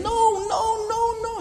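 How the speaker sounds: bang out every no; Paul banging the pulpit, high repeated no; emphatic refusal. Retold or imitated. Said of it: "He's banging and saying".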